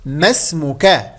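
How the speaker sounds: ما اسمكَ said slowly, ending -ka with a fatha; masculine fatha. Shown as a demonstration. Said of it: "في المذكر نقول". (ما اسمكَ بفتح الكاف ببطء)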